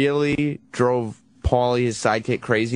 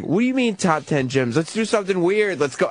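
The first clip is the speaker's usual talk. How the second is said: mock exasperated protest, pitch raised; retold yelling; 5 semitones higher than usual. Retelling sidekick yelling at the host off the air, mock yelling. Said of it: "he's yelling at him".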